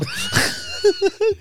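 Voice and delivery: high, squealing burst of laughter; shrieking laugh. Real, not acted. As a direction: cackle hard at the joke. Laughing at Amazon coffin joke.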